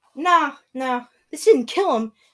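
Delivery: loud, put-on Brooklyn Italian accent, narrator voice. Quoting the narrator of the story, in a Brooklyn Italian accent. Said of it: "the narrator in a Brooklyn Italian accent will tell us".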